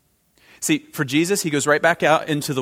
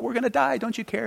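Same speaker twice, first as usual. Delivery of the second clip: panicked plea; 10 semitones higher, faster than usual. Acted. Disciples waking Jesus.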